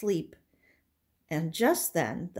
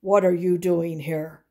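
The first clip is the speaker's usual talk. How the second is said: Papa Bear; 7 dB louder than usual. Acted. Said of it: "And Papa Bear said".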